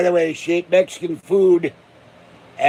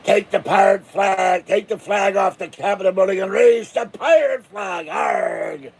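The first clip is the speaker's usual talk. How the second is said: pirate rally; 4 semitones higher than usual. Pretend. Pirate mob fantasy.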